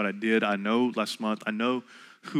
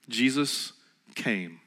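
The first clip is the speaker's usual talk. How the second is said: drawn out and soft, letting it land; slow hushed emphasis; 6 dB quieter, slower than usual. Shown as a demonstration. Preacher to congregation, slow hushed reveal. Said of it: "You ready?".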